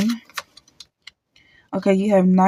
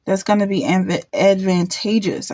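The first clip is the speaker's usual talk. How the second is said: stumbling over the word; catching on the first syllable; stuttering. Real, not acted. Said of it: "I don't know why I'm stuttering".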